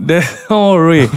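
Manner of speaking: laughing through the words; can't hold back a laugh. Real, not acted. Laughs mid-line.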